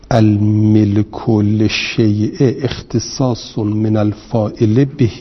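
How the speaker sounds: reading the quoted Arabic definition slowly; deliberate quotation from the source; slow text reading. Shown as a demonstration. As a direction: recite الملک للشیء word by word, stretched. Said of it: "این آقای ابو علی گفته".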